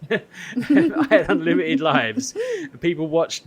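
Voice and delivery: laughing through it, high and slow; words squeezed out through laughter; giggling while bragging. Real, not acted. Laughing at his own story.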